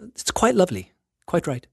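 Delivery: put-on a playful Downton Abbey British accent; lightly hammed-up British aristocrat accent; mock British accent. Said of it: "why the British accent".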